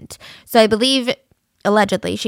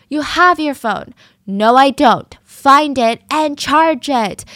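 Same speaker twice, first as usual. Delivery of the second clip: higher, louder, slowed-down yelling; mock scream; 4 semitones higher, 7 dB louder, slower than usual. The girlfriend demanding her phone, in a slow, high mock scream. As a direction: shout the order, dragging it out. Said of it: "she's screaming".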